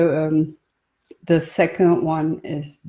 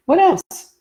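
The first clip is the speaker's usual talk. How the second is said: higher, louder eager question; eager demand; 13 semitones higher, 7 dB louder than usual. Acted. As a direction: press him keenly for more. Pressing him for more.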